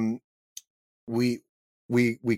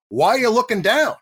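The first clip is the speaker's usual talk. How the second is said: much higher, louder, exasperated; demanding director; 10 semitones higher, 3 dB louder than usual. Retold or imitated. Director Michael Bay scolding the actor on set, high and loud. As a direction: mimic a keyed-up director calling out the actor.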